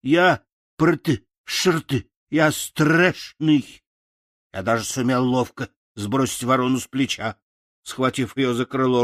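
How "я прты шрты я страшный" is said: stumbling, halting would-be threat; stammering scarecrow threat. Acted. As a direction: try to sound scary and fumble the words. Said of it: "закричал я". (запинаясь, Страшила грозит вороне)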